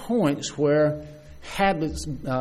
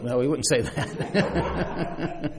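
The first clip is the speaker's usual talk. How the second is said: laughing it off; much slower than usual. Real, not acted. Laughs at his own joke.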